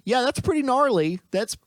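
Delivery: way up, mock impressed; hammed-up gnarly reaction; high excited reaction. Quoting own unimpressed reaction.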